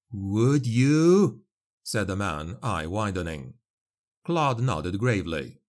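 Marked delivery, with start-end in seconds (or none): 0.1-1.4 louder, hopeful gasp of a question; hope bursting through; eager peasant. A narrator's reading. Peasant hearing he may become a novice, eager and louder.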